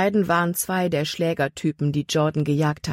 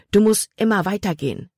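urging; 4 semitones higher than usual. Acted. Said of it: "warnte er".

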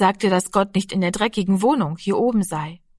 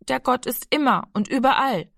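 higher, forced out in a rush; blurted out; 5 semitones higher than usual. Acted. Cornered boy blurts out what he learned, higher. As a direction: push the words out under pressure. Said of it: "stieß Rami heraus".

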